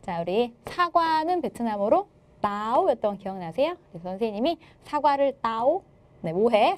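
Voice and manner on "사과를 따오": "따오"를 길게 끌며 끝을 높이 올려서; 외우라고 시범 보이듯 "따오"의 음을 위로; 올라가는 성조. Shown as a demonstration. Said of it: "성조는 올라가는 성조". ("따오"를 올라가는 성조로 느리게)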